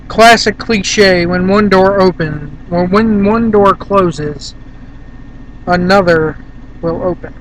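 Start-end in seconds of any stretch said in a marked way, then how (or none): 1.3-7.3 slow, drawn-out sarcastic reading; slow mocking read. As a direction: drag out the cliche scornfully. Reads fortune cliche mockingly.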